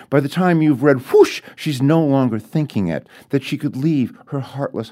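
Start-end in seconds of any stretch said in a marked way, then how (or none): 1.1-1.4 a much higher, louder burst of a whoosh; sudden whoosh. A narrator's reading. Narrator voicing the queen's sudden longing, a high burst. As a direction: let the word fly up and out.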